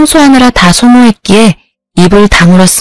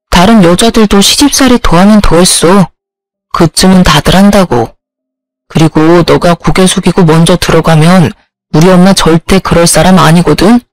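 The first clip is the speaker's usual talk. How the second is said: lower, condescending husband; 3 semitones lower than usual. Acted. Husband defending his mother to his wife, lower and condescending. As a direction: lecture her like a smug husband.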